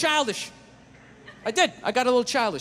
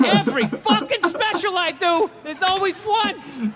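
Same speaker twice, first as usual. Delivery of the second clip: exasperated rant; 7 semitones higher, slower than usual. Acted.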